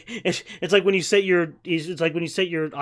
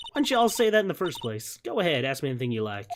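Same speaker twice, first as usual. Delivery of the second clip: put-on southern accent. Southerner agrees to be questioned, southern accent. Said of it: "giving this character a southern accent".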